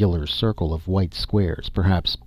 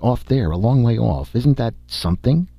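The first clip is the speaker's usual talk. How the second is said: higher, urgent pointing-out; sudden alert; 5 semitones higher, 4 dB louder than usual. A narrator's reading. Dorle points out something far off, sudden alert. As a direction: call attention to a sudden sighting. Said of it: "Dorle said suddenly".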